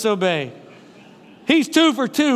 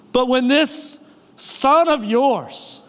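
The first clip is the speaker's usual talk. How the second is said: resentful sneer; slower than usual. Retold or imitated. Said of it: "every parent knows what this sounds like".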